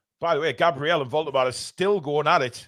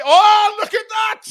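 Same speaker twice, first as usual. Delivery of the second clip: high delighted yell; surprised; 10 dB louder, slower than usual. Real, not acted. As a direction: gasp at the skill. Reacting to skill.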